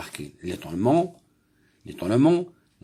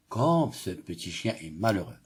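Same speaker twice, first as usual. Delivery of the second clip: pitying; 3 semitones lower than usual. Shown as a demonstration. Teacher reading to pupils to show pity, pitying. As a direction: feel sorry for the little dog. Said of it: "Cette phrase exprime la pitié".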